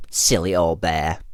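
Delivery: put-on fondly, in a British accent; affectionate British storybook delivery. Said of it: "in British accent".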